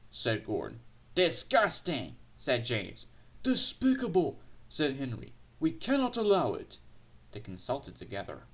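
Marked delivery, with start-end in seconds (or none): 1.1-2.2 slow, high-pitched disgust; outraged engine. A narrator's reading. James condemns the rumour in outrage. 3.4-4.4 high, loud indignant cry; outraged engine. A narrator's reading. Henry condemns the rumour in outrage. 5.6-6.8 high-pitched firm refusal; indignant engines. A narrator's reading. Engines jointly reject the insult.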